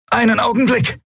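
high reptilian call; lizard creature voice. Acted. Draxyl calls down from above. (hohe Echsenstimme, rufend)

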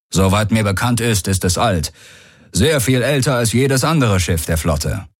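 a hint of a commander's explanatory voice; commander explaining. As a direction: lightly voice a commander briefing his passengers.

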